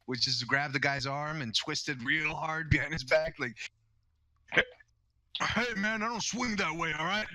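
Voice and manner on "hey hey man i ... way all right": high-pitched, put-off protest in character; Barbecue. Acted. Player as character refusing a crotch grab, high-pitched protest. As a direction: play him higher, brushing off an advance. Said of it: "react the way Barbecue reacts".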